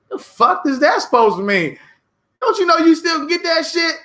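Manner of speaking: rising to an irritated shout; angry retort. Retold or imitated. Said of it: "And I was like".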